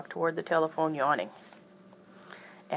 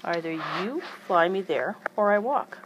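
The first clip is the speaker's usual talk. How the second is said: slow, then louder at the end; firm ultimatum; 5 dB louder than usual. Acted. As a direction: lay down the law. Aunt Lily's ultimatum.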